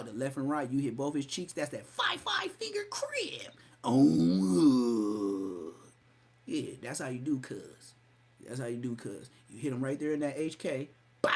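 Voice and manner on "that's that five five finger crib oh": mock whisper. Mock whisper then cry.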